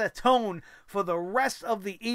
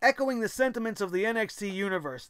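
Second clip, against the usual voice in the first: ordinary talk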